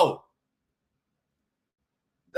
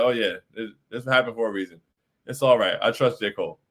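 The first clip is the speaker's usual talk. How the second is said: imagined future self; 10 semitones lower than usual. Retold or imitated. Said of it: "It's like".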